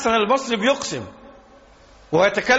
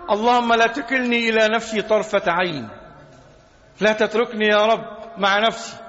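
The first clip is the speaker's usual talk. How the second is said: humble prayer; 4 semitones lower than usual. Acted. Quoting the Prophet's prayer softly.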